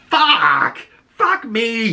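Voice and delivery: loud, high mock furious cursing; hammed-up angry outburst; pissed-off curse. John cursing as they all head out, loud mock fury. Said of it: "he's pissed".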